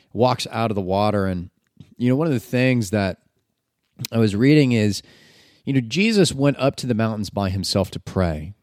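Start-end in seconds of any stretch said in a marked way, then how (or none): none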